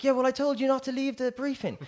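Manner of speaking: high, told-you-so retort, mimicking her; imitating Anna's scolding. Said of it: "we're going crazy at each other".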